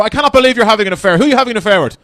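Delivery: mild mock outrage.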